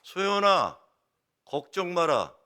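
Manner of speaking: loud, high grandma calling out to her grandchild; grandmother's loud comfort. Retold or imitated. 할머니가 울던 손녀를 안고 크게 위로하며. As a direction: boom it out like a proud grandmother. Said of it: "큰 소리를 하시더라고요".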